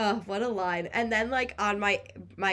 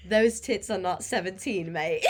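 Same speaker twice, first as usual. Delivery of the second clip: put-on a light British accent on the quote, slightly louder; imitated British accent; 3 dB louder than usual. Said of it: "in the British accent".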